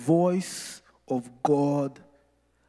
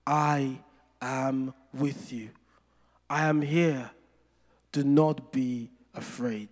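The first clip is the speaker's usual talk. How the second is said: reassurance; 3 semitones lower than usual. Retold or imitated. Quoting God's gentle reassurance slowly.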